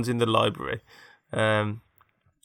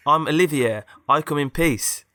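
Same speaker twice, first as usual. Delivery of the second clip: higher, louder put-on voice; hero introducing himself; 4 semitones higher, 5 dB louder than usual. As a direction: announce it as the story's hero.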